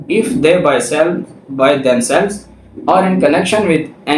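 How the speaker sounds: reading the law aloud slowly, word by word; slow statute reading. Acted. Lecturer reading the statute to law students, slow and deliberate. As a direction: dictate each clause so students can follow.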